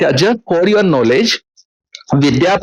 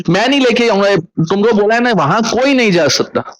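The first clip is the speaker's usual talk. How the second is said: higher, firm father's no; stern refusal; 5 semitones higher than usual. Retold or imitated. Father refusing to take the son-in-law, raised and firm.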